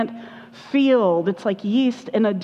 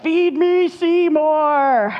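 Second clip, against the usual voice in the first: high, loud hammed-up monster plant; demanding man-eating plant, hammed up; Audrey II plant voice; 6 semitones higher, 3 dB louder, much slower than usual. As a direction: belt it like the hungry plant. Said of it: "Little Shop of Horrors".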